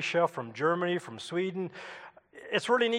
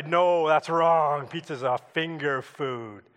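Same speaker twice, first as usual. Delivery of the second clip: mock objection; slower than usual. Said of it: "there's some here today that say".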